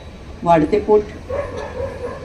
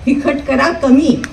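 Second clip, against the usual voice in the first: comic verse recitation; 5 semitones higher than usual. Acted.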